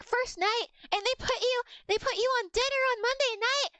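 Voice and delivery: mildly incredulous echo, rising at the end. Retold or imitated. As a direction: retell a disbelieving question, getting worked up. Incredulous reply to untrained coworker.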